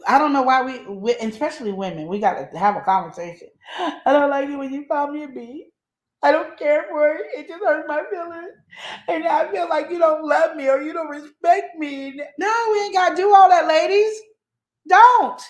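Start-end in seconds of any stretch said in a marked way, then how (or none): 3.8-12.2 higher, hammed-up pleading voice; mocking teary plea breaking into a cry; mock whiny hurt woman. 12.4-15.4 higher, louder, insistent; real emphatic outburst. Real, not acted. Urging the ladies emphatically.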